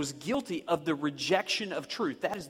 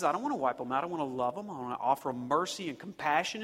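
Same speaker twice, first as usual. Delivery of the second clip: tender; 3 semitones lower, 5 dB quieter, faster than usual. Retold or imitated. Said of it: "God says".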